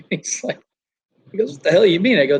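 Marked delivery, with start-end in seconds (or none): 1.5-2.2 louder, higher mock-baffled retort; retold bafflement. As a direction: imitate someone thrown, raising your voice.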